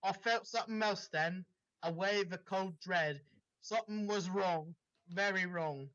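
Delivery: dramatic read-aloud of a fanfic; story reading. Acted. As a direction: narrate it like the opening of a novel. S0 reads the dramatic story part.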